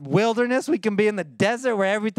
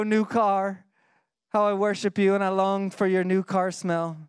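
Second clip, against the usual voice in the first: mock worship. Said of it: "what this verse would sound like".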